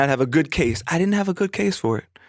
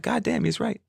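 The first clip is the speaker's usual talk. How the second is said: quiet awe; 2 semitones higher, 8 dB quieter than usual. Retold or imitated. Recalling the lesson, quiet awe.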